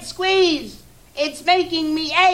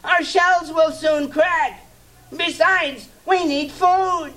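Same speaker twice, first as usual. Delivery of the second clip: much higher, strained pleading turtle; groaning plea. Acted. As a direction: beg the king through the pain. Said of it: "groaned Mac".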